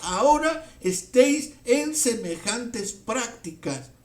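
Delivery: loud, insistent reproach from the pulpit; indignant preacher demanding how this can be. Acted. Preacher rebuking congregation in Paul's voice.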